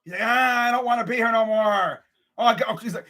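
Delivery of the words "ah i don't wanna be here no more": reluctant announcer. Acted. Fan imagining Joe Buck in the booth, reluctant. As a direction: stretch it out like a fed-up announcer. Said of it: "imagine him in the freaking booth".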